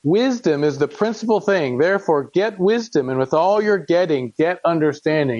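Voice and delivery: measured, solemn reading of scripture; earnest King James reading voice. Acted. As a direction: read it like a father pleading with his son. Reads Proverbs aloud to congregation.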